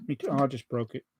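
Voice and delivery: usual speaking voice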